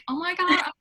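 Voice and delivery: put-on high, bright valley girl gush; American girl voice. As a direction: gush it like a bubbly American teen. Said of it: "your prototype of, like, an, an American girl".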